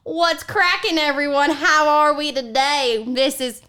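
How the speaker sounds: lightly voiced Southern granny host; Bertha. Granny greets podcast listeners, Southern granny voice. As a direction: greet the audience as an old Southern grandma.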